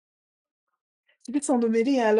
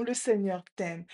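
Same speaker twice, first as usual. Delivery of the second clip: quieter reply to the call; imitated echo; 3 dB quieter than usual. Voice repeats the father's blessing, quieter echo. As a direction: hand it back with less force. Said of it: "Et la voix répond".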